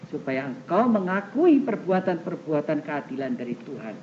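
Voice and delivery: measured, declaimed Bible reading; scripture reading. Acted. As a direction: read God's word out to a congregation. Reads scripture aloud to congregation.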